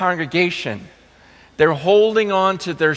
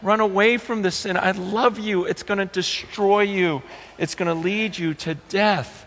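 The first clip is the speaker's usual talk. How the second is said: softer, tender voice of a loving God; God's gentle voice; 5 dB quieter than usual. Retold or imitated. God tenderly urging his people to run from sin, softer and loving. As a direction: gently warn them away from sin, like a loving father. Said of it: "that's why God's saying".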